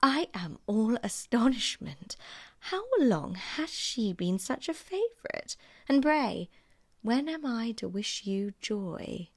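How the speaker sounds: a sneering, drawn-out tease; mocking Miss Bingley. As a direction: feign astonishment to needle him. Miss Bingley's voiced dialogue.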